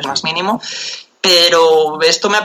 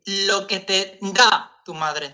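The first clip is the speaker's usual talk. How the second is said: slow announcement; 4 dB quieter, much slower than usual. Real, not acted. Announcing a proposed show name.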